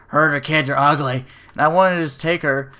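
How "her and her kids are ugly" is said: lightly put-on griping woman; mock someone bitching on the phone; imitated petty complaining; complaining lady. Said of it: "she just starts fucking bitching about everything".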